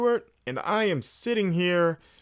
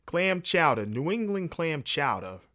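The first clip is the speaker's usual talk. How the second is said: practised Boston accent with r-less chowder; 2 semitones higher than usual. Shown as a demonstration. Host warming up the accent on a regional dish, Boston accent. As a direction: put on Boston, chowder ending in "ah". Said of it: "how I always have to trigger is say chowder".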